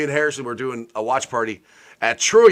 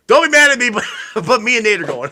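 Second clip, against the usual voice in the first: sheepish laughter; 7 semitones higher, 5 dB louder, faster than usual. Retold or imitated. Friend breaking the news sheepishly.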